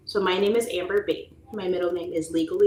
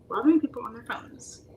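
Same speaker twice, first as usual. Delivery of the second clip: whisper; 7 semitones higher than usual. Retold or imitated. Whispered complaint.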